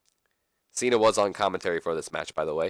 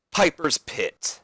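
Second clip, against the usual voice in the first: slow, higher announcer call; dramatic, drawn-out segment announcement; 6 semitones higher, much slower than usual. Acted. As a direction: stretch it out like a ring announcer.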